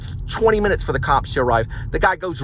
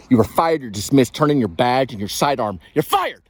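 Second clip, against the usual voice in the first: mad. Pretend. Jogger pretending to fire the officer, mad and escalating. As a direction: build to an indignant "you're fired". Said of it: "but I'm mad".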